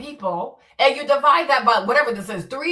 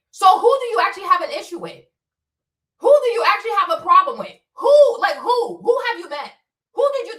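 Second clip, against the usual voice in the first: louder, fast, heated questions; fast exasperated challenge; exasperated demand; 2 semitones higher, 4 dB louder than usual. Real, not acted. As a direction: press them hard, fed up.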